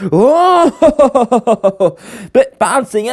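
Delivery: laughing through the words on a bouncy ride. Acted. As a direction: giggle as the ride jolts.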